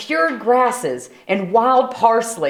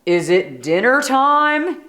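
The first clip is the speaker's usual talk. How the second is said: bellow; 4 semitones higher than usual. Acted. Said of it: "he bellowed".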